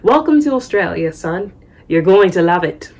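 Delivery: put-on lightly affected English accent; attempted English accent. Host father welcoming the American boy, attempted English accent. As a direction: have a tentative go at an English accent. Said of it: "I'm gonna try that accent".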